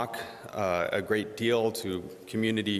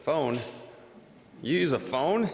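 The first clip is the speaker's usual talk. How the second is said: mock disbelief, pitched higher; imitating amazed students, voice up high; a lightly hammed-up teen asking in disbelief; incredulous kids; 6 semitones higher than usual. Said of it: "they're like".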